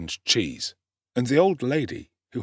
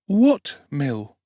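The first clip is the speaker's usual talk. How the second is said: put-on slightly higher and louder young boy's question; puzzled orphan boy; 5 semitones higher, 6 dB louder than usual. A narrator's reading. Oliver asking the street boy, puzzled. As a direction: ask innocently. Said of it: "inquired Oliver".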